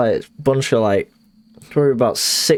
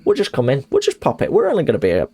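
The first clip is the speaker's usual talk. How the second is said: higher, breezy mock landlord voice; imitating the landlord; 4 semitones higher than usual. Retelling the landlord barging in, a higher mock breezy voice. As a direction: brush off the tenant, pitched up high. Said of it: "So I was like".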